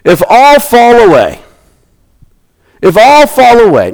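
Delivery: high, loud mock boast of Peter. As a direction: play Peter bragging to his friends.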